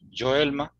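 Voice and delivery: "Joelma" with a voiced J; Brazilian J. Shown as a demonstration. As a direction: answer with "Joelma" as in Portuguese. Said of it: "¿Cómo se pronuncia en Brasil y en Portugal?".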